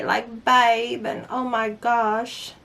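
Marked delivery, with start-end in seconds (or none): 0.5-1.0 imitated British accent on "babe"; lightly put-on British accent. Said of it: "the way they say". 1.3-2.5 attempted British accent, drawn out slowly; slow mock-British exclamation. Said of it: "the way they say".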